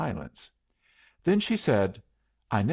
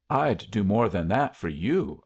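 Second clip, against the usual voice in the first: a little weight on the final "you"; emphasis on YOU. A narrator's reading. Man declaring his devotion to her, light stress on "you". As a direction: lean gently on "you" at the end. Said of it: "putting a little emphasis on the last word".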